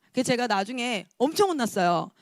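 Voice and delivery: ordinary talk, nothing marked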